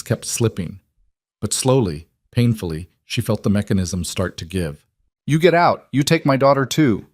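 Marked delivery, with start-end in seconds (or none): 5.3-7.1 put-on sudden urgent plea, louder and higher, Eastern European accent. A narrator's reading. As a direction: Eastern European mother begs Selena to save her daughter, urgent. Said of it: "the Eastern European woman said suddenly".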